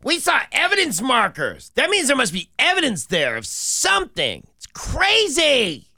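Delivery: high, dramatic TV reporter voice; hammed-up breaking news report. Mock news crew report.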